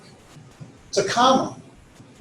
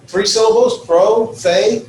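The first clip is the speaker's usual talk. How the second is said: Pro and fe split, higher pitch, fe punched; accent on fe; 5 semitones higher, 3 dB louder, slower than usual. Shown as a demonstration. Teacher counting three syllables, Pro, fe with the accent on fe. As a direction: break it into syllables and land on fe. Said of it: "that's where the accent is".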